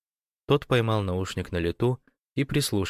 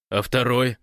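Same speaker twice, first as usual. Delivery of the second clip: almost squealing; 4 semitones higher, 4 dB louder than usual. Acted. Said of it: "почти взвизгнул Гош".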